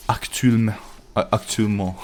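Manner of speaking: repeated attempts at French "Actuellement"; tentative go at French pronunciation. Shown as a demonstration. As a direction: sound out "Actuellement" in French, unsure. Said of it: "say that in French".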